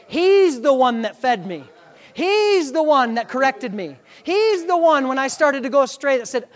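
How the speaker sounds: drawn-out, punched "He's the one"; emphatic preaching. Acted. Preacher honoring his pastor before church, emphatic preaching. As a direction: hammer each repeated opening to the congregation.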